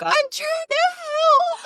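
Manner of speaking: high, slow, teary plea; mock whiny mom. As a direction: whine it like a hurt helper. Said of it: "And she's like".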